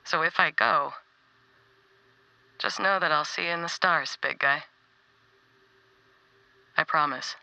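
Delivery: gentle heartfelt message to a friend; tender farewell. Acted.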